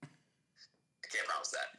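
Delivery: whispered deadpan; hushed joke. Real, not acted.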